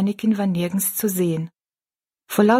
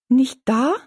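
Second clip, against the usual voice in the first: disappointed; 5 semitones higher than usual. Acted. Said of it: "rief Rosalie enttäuscht aus".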